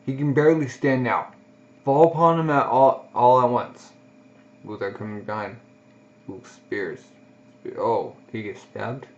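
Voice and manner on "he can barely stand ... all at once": raised voice, driving the soldiers on; rally the men to charge, loud; commander's battle cry. Acted. Commander urging his troops to attack, loud rallying call.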